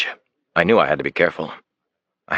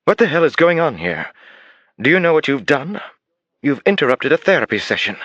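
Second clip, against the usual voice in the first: indignant therapist; 10 semitones higher than usual. Acted. Therapist berating the detective at her door, outraged high voice. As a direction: scold the intruders sharply.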